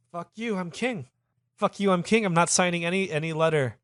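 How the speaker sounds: high-pitched indignant refusal; defiant king. Acted. Farouk refusing Lamson's letter, high indignant voice.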